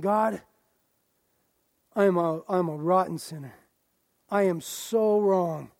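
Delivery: humble prayer. Pretend. Pastor voices a sinner's prayer to God, humble pleading. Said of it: "come before God saying".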